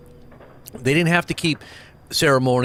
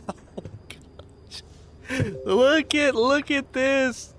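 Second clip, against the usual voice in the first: astonished; 12 semitones higher, much slower than usual. Real, not acted. Amazed at firework video.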